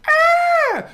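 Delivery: usual speaking voice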